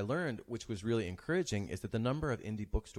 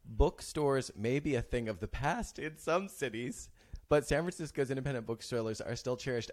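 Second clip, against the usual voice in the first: mock solemn quote; 4 semitones higher than usual. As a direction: read it out with exaggerated gravity to tease. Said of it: "gotta take a deep breath".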